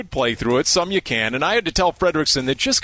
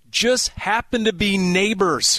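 punchline shout; 4 semitones higher than usual. Acted. Punchline build-up.

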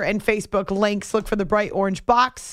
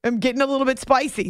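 put-on Aussie accent; faster than usual. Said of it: "like an Aussie accent".

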